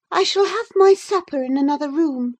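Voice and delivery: lightly voiced prim visitor demanding his supper; indignant gentleman. Visitor to the old servant, mildly haughty demand.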